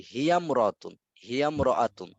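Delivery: "হিয়ামরাতুন" run together with the alif silent; joined pronunciation. Shown as a demonstration. Teacher shows student the silent alif, "হিয়ামরাতুন" said joined. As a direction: join "হিয়ামরাতুন" as one word, no "i" after হিয়া. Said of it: "আলিফটার কি হয় নাই".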